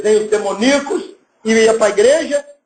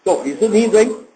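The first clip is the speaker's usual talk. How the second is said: seductive greeting; 5 semitones lower than usual. Retold or imitated. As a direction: croon it low to charm her. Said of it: "Ele fala". (cantada em voz mais grave e suave)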